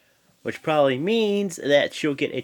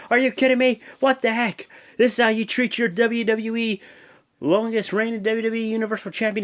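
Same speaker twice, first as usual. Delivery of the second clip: hammed-up Jericho; 10 semitones higher than usual. Jericho storming out to complain, hammed-up outrage. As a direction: ham up Jericho's indignant whine. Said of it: "He's like".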